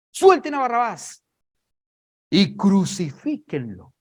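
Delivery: loud shout slowing into the verdict; crowd's loud demand. Acted. Crowd demanding Barabbas be freed, loud and insistent.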